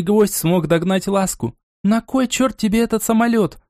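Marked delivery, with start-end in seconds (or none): 1.8-3.6 отрывистый крик. Acted. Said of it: "отрывисто крикнула Ласка".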